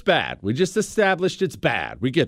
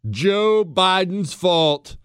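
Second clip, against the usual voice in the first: mock pundit; 4 semitones higher, slower than usual. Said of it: "a popular right-wing talking point".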